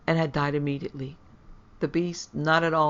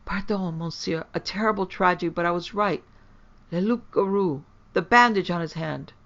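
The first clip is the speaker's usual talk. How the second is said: stammering; 3 semitones higher than usual. Acted. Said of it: "was stammering in my ears".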